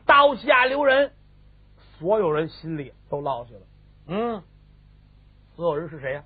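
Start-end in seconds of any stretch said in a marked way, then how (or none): 0.1-1.1 high, loud, slowed cry; drawn-out urgent shout; shouted command. A narrator's reading. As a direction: call a halt to an execution. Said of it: "老太后一喊".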